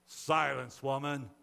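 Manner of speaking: loud, stern command; crying out. A narrator's reading. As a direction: silence someone sharply. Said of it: "cried one of the cave dwellers".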